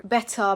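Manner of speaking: BETTER with a true T, silent R; clear British T. Shown as a demonstration. Teacher contrasting accents, clear T in BETTER. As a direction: keep the T crisp in BETTER. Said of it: "a T in the middle of a word".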